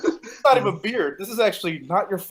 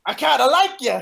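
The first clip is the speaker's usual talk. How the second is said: raised-pitch quoted line; imitating a wrestler; 6 semitones higher, 4 dB louder than usual. Co-host retelling the Piper's Pit slap, playful imitation. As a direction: play the wrestler's grudging approval. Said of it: "And then he's like".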